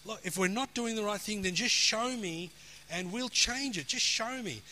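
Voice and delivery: earnestly retold prayer for direction; seeking plea. Preacher retells asking God to show him, seeking plea. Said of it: "I was seeking God".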